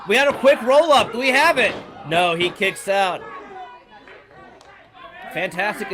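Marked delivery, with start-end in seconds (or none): 0.1-3.2 excited near-fall call, louder and higher; wrestling commentator. Acted. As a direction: call the roll-up like the match hangs on it. Near pin, rising excitement.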